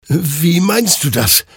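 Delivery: a bewildered soldier asking; confused stammer. A narrator's reading. Hector confused by the souls, bewildered. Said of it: "stammelte Hector verwirrt".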